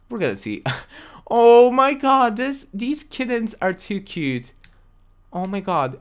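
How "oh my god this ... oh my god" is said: high, slow, loud oh my god, melting; gushing over kittens. Real, not acted. Streamer seeing adoptable kittens, high gushing delight. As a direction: coo over how cute they are.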